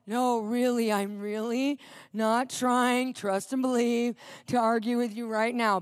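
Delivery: slow, measured self-restraint; deliberately even, patient denial; forced calm. Retold or imitated. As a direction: act out carefully not arguing. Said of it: "Trying to be calm and non-prideful".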